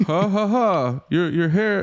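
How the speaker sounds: rehearsing a joke for his wife, laughing; mock laughing.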